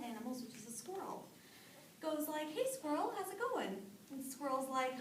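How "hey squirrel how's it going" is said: sly buzzard greeting. A narrator's reading.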